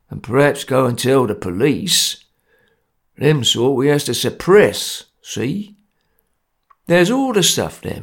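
lightly voiced stern Cockney ringleader; grim gang enforcer. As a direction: lay down the law, a touch menacing.

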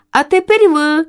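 high call from below; mother swallow calling up from the ground. A narrator's reading. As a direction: call up to the chicks. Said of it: "закричала з доли".

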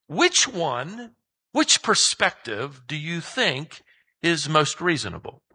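gentle, kind. Acted. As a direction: coax Jonah kindly, understated. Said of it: "God asks him gently, kindly".

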